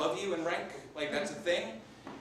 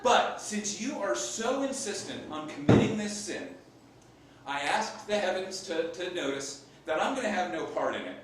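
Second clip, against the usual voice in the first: mock-pious declaration; 6 dB louder than usual. Acted sanctimonious consent, declaimed.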